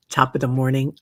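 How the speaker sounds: put-on a quick, playful stab at a British accent; mock British accent. Host greets viewer Garnet in a joking British accent. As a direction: toss off a jokey fake British greeting. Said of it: "That's not British".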